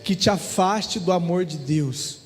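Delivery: earnest, slowing preacher appeal; preaching. Acted. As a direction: plead with the congregation, drawing words out. Preacher addressing congregation. (pregação fervorosa)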